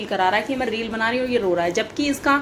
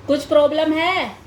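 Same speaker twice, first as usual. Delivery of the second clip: higher coaxing ask; 5 semitones higher, 3 dB louder than usual. Real, not acted. Repeated to baby, higher slower.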